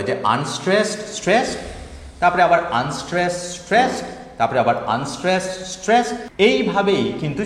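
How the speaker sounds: chanting the iamb beat; stress pattern demo. Shown as a demonstration. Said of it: "একটা stress প্যাটার্নকে follow করে".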